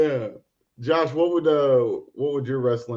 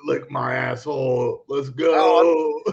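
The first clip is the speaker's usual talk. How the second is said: wrestling promo shout; 4 dB louder, slower than usual. Pretend. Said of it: "you just like".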